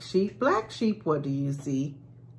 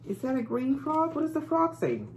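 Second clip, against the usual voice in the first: sing-song picture book read; bright lilting read-aloud for little ones; reading to a toddler. Acted. Reading Brown Bear to kids.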